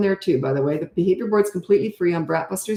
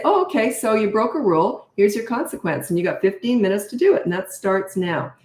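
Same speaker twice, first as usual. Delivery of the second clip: unbothered, even, slowing on the last words; calm matter-of-fact parent; 2 semitones higher than usual. Shown as a demonstration. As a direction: say the consequence like it's no big deal. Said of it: "It's that calm".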